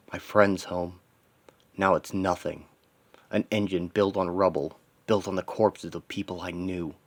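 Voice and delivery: low-key, restrained inner monologue; lightly voiced brooding hero. Hero grieving his destroyed hometown, brooding.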